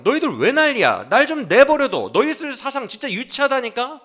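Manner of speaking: an exasperated man telling his friends to leave him alone; exasperated Job. Acted. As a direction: Job snapping at his friends, loud and fed up. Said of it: "지금 그 말이에요".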